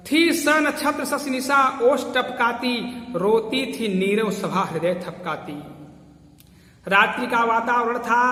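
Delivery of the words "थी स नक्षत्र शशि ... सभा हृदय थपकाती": slow, sonorous verse recital; poem recitation. Acted. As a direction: paint the night scene slowly in verse. (धीमा, गूंजता काव्य पाठ)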